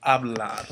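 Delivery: hablar said slowly in Spanish; Spanish verb. Shown as a demonstration. Teacher modelling the verb for students, clear Spanish. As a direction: give hablar its Spanish sounds. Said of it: "like the verb".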